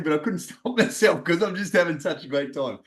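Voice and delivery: a laugh breaking into the words; real laughing. Real, not acted. Host excusing laughter while talking to guest, laughing. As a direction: let a giggle slip out mid-sentence. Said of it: "I'm laughing so much".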